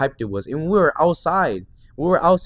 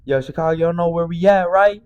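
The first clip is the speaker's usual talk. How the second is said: higher, called-out stage shout; performer hyping the crowd; 4 semitones higher, 4 dB louder than usual. Retold or imitated. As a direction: imitate an artist working the crowd. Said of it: "Leroy was like".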